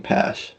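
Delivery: Pash as one syllable, rhymes with "cash"; mistaken pronunciation. Shown as a demonstration. Broadcaster recalling an earlier game's mistake, Pash as one syllable. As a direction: drop the final vowel, just Pash. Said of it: "saying Pash".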